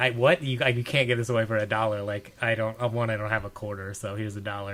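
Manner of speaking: ordinary talk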